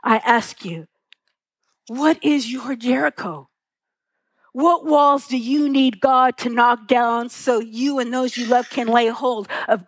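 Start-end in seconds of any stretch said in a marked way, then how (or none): 0.0-6.9 tender question. Real, not acted. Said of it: "with so much tenderness".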